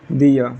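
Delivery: दिया as "dee-uh", R dropped; silent final R. Shown as a demonstration. Teacher answering how the written word is read, silent R. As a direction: end दिया on an open vowel, no R. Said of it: "आर भी silent होता है".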